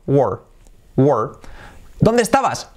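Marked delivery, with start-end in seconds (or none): 0.1-1.3 "were" as a single falling "wur"; one syllable. Shown as a demonstration. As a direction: compact "were", no e, just W into R. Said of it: "este es uno". ("were" en una sola sílaba, descendente)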